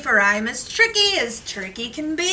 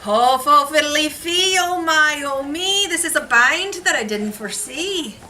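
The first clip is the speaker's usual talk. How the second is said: caught leprechaun; 6 semitones higher, 4 dB louder than usual. Acted. Trapped leprechaun bargains.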